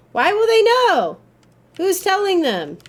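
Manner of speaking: high, loud indignant protest; loud, high-pitched outrage. Real, not acted. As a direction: demand it, incredulous. Arguing with game choice.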